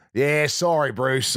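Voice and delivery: imitated New Zealand apology; casual New Zealand brush-off; New Zealand accent. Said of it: "his New Zealand accent".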